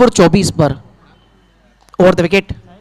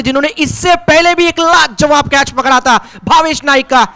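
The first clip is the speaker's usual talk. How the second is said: excited commentary; 5 semitones higher than usual. Real, not acted. Wicket falls, catch taken.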